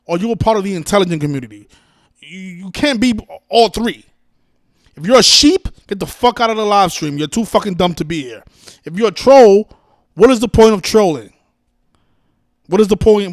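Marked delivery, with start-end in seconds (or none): 2.2-13.3 angry rant. Real, not acted. Ranting at trolls in chat.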